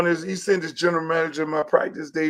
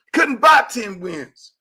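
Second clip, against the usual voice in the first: emphatic shout; 4 semitones higher, 5 dB louder, much slower than usual. Real, not acted. Repeats point as emphatic shout.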